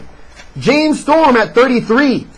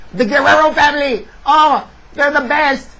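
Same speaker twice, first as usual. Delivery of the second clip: mock commentator; 4 semitones higher than usual. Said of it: "They didn't say it like that".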